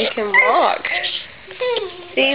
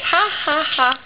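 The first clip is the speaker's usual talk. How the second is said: demonstrated laugh; 4 semitones higher than usual. Shown as a demonstration.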